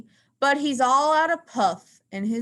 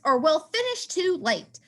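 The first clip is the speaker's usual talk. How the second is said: slightly higher mouse voice; a hint of Marvin's squeak; lightly squeaky mouse giving orders; 5 semitones higher than usual. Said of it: "Marvin squeaks".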